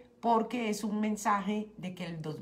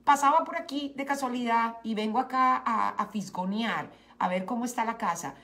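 nosy mother-in-law; 3 semitones higher, 4 dB louder than usual. Retold or imitated.

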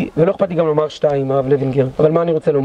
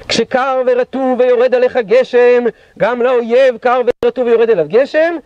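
louder and slow, a commander's rallying cry; slow retold shout; 4 semitones higher, 3 dB louder than usual. A commander rallies officers not to retreat, slow loud call. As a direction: drag each word out like a battle cry. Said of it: "וצועק את המשפט הבא".

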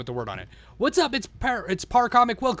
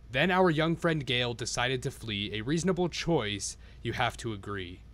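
1 storybook reading; 2 semitones lower, slower than usual. A narrator's reading. Reads the storybook rhymes.

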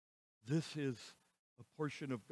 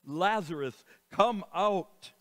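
loud shout; 3 semitones higher, 6 dB louder, slower than usual. Acted. Jesus calling Lazarus from the tomb, loud shout. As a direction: call him from the tomb at full voice. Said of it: "he shouted with a loud voice".

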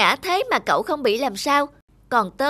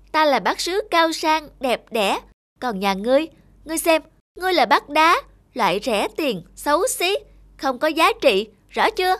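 pompous boasting with scornful jabs; kiêu ngạo. Acted. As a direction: puff yourself up and belittle. Bát sứ kiêu ngạo khoe khoang. (bát sứ kiêu căng mắng bát đá rẻ tiền)

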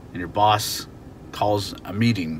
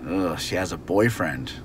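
annoyed; 3 semitones lower than usual. Shown as a demonstration. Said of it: "you're a little bit annoyed".

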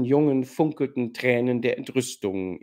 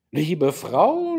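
sanfter Vorwurf, noch zurückgehalten; "Liebe Frau" mild tadelnd, mit der Hand aufs Herz; leicht vorwurfsvoll; 4 semitones higher, 3 dB louder than usual. Acted. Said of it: "sagte er vorwurfsvoll". (der General mahnt seine Frau, leise vorwurfsvoll)

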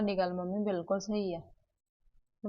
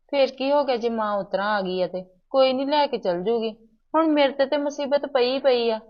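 heated argument; 5 dB louder than usual. Acted. Daughter argues back with mother.

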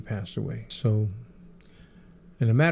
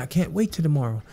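imitating Michael; 8 semitones higher than usual. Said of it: "He said".

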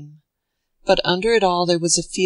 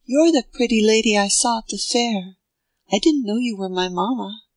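put-on higher, wondering small child; little boy voice; 4 semitones higher than usual. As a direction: speak up like an innocent little boy. Little boy answers his mother.

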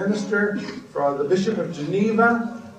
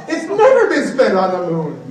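emphatic; 2 semitones higher, 6 dB louder than usual. Real, not acted. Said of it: "go mad".

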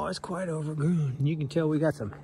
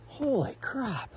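higher, slow disbelief; surprised; 8 semitones higher, slower than usual. Real, not acted. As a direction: marvel at the climb. Reacting to steep climb.

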